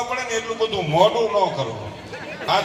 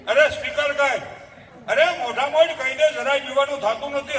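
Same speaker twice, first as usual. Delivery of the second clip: defiant mother; 6 semitones higher than usual. Acted.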